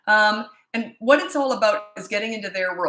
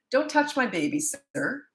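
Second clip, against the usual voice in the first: raised pitch, firm mother's warning; firm retold warning; 6 semitones higher, slower than usual. Mother retelling warning a stranger off her baby, firm. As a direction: warn him off, retelling it.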